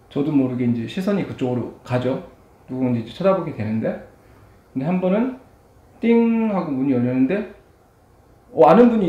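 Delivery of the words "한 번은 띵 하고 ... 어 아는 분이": speaking between bites; muffled chewing speech; mouth full chewing. Real, not acted. Seen 1: Took noodles at -1, mouth closed and chewing while speaking.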